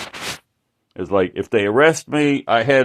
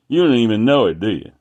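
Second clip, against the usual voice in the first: retold angry guy; 6 dB louder, faster than usual. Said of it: "It, like, he was pissed".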